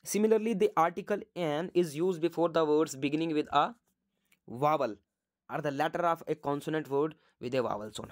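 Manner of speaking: reading the rule out word by word, very slowly; slow dictation. Shown as a demonstration. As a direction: dictate it slowly so students can write.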